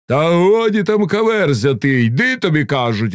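lightly acted stern snapping; mild thundering rebuke. A narrator's reading. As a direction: scold and order him along. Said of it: "гримнули посланці".

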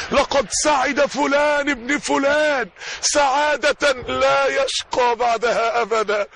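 slow, announced proclamation before all creation; solemn proclamation. Acted. Preacher voicing God's proclamation to all creation, slow and grand. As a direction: declare it grandly, slowly.

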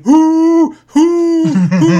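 loud hooting "Who? Who?"; kid's hooting. Retold or imitated. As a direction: hoot it out like a kid.

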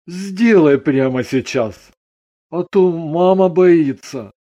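mildly pleading father. A narrator's reading. Father asks daughter to fix it now, pleading. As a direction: ask it as an earnest plea. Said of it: "Ганин с мольбой попросил".

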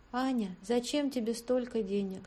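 faint tired question; weak voice. A narrator's reading. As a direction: still weak, asking quietly. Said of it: "спросила всё ещё слабым голосом Дашка".

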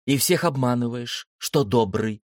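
lightly voiced sister, firmly convinced; convinced girl. A narrator's reading. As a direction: state it as settled fact, like a child. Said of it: "убеждённо заявила Света".

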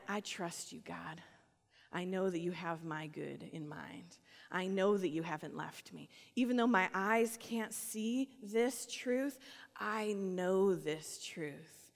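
soft, slow, sincere; quiet trust. Acted. A believer quietly assuring God of trust, slow and soft. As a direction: settle into quiet certainty.

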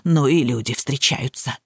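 a hint of an older woman tutting; lightly voiced neighbor, dismayed. A narrator's reading. Neighbor reacts to the widow, mildly shocked. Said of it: "перекрестилась Куклина".

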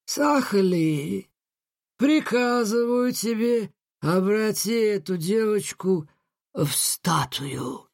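slow, high, commanding genie; menacing command. Acted. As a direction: order it slowly, with menace. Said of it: "грозно проговорил джин". (грозный приказ)

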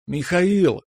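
high, long sing-out of a name; drawn-out call. A narrator's reading. Natasha running into the corridor for Mikhail, drawn-out call. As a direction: call out for him, stretching the last vowel. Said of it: "С протяжным зовом".

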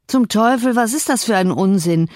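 a farmhand snapping back in annoyance; gruff grumble. A narrator's reading. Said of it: "brummte Harrington".

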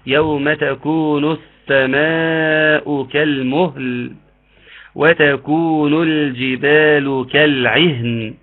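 slow chanted recitation; Quranic recitation. Shown as a demonstration. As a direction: recite slowly with tajwid. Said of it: "وقت التشديد".

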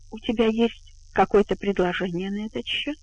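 put-on drunk slurring. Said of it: "Заплетающимся языком поинтересовалась она".

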